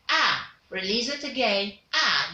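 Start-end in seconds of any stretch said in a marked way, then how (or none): 0.1-0.5 Ah sung out loud from the belly, mouth wide open. Shown as a demonstration. Teacher showing the short u, loud from the abdomen. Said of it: "open your mouth wide and loud". 1.9-2.3 low, loud Ah from the abdomen, mouth wide open. Shown as a demonstration. Teacher releasing the short u sound low and loud. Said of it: "open your mouth wide and loud".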